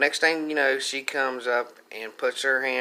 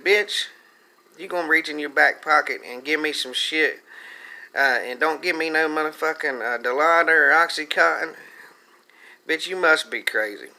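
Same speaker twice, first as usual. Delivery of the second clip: mock outrage; 3 semitones higher, 3 dB louder than usual. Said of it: "I said".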